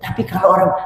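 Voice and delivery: ordinary delivery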